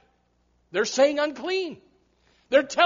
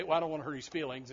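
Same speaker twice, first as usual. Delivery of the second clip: much lower, much softer, fast mumbled excuse; timid excuse; 8 semitones lower, 12 dB quieter, much faster than usual. Pretend. Steve Shaw sneaking out past the leper, timid mumble. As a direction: mumble it to avoid a fuss.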